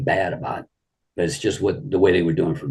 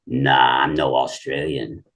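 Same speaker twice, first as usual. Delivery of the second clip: imitating Ron's drawl; 5 semitones lower, slower than usual. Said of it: "you know that drawl he had".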